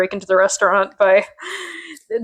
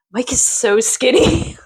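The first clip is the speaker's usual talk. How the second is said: slow, breathless amazement; gasping surprise; 3 semitones higher than usual. Real, not acted. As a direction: gasp before it, astonished. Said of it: "gasp reaction".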